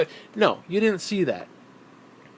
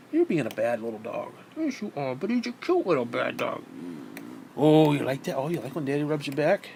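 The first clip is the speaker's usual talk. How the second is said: doting pet talk; 2 semitones lower than usual. Real, not acted. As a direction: coo teasingly at your little dog. Owner baby-talks to his dog.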